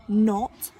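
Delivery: sarcastic. Acted. Weed's mocking punchline.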